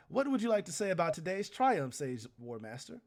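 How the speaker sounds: loud, high showman asking; loud announcer question. Acted. Herald interviewing the war master, loud showman. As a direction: throw the question like a TV host.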